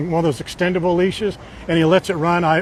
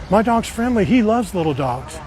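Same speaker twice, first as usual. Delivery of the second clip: higher mock owner voice, light and breezy; mocking dog owners; 3 semitones higher than usual. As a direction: parody a clueless dog owner, pitched up. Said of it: "They always say the same thing".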